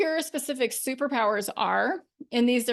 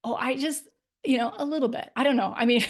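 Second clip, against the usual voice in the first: hedging; 2 semitones higher, faster than usual. Shown as a demonstration. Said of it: "how I say these things".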